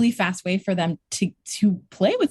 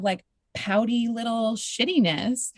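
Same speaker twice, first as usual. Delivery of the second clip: pouty; 4 dB quieter, slower than usual. Retold or imitated. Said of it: "I was play pouting".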